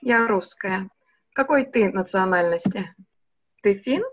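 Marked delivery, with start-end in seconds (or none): none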